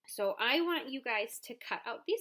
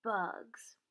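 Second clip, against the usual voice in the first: whisper. Acted. Whispered surprise word in story.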